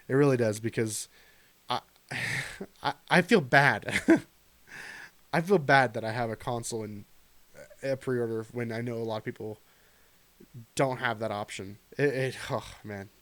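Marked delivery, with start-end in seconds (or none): 1.7-13.1 fighting back tears as you admit it; choked up. Real, not acted. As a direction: voice catching with emotion, half laughing. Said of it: "That chokes me up".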